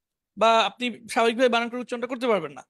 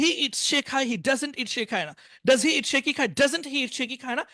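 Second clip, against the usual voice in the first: rhythmic drill, English phrase then Bengali meaning; model recitation; slower than usual. Shown as a demonstration. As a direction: recite the tense table in a steady patter. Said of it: "এইভাবে শোনাবেন".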